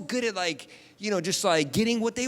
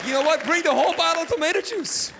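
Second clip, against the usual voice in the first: defiant; 7 semitones higher, 5 dB louder than usual. Retold or imitated. Son giving in defiantly.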